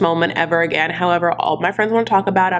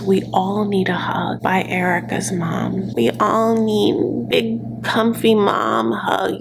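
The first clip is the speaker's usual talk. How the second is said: whisper; 2 semitones higher, slower than usual. Acted. Longing for a mom hug.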